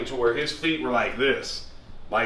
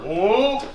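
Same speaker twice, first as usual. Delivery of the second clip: raised, rounded whoa as sound effect; imitated swooping whoa; 7 semitones higher, 3 dB louder than usual. Showing the move pulled forward, raised swooping whoa. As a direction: lift it up like a passing wave.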